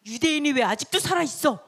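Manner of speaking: mock menace, sharply challenging the man; sharp threat. King threatens his servant on waking, sharp threat. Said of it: "막 째려보면서 헤르몬 이 사람을 막 날카롭게 위협하고".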